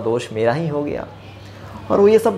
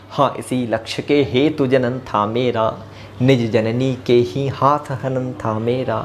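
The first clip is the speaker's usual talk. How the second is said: poem recitation; 2 semitones lower than usual. Acted. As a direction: recite the verse with gravity. Recites Saket verses.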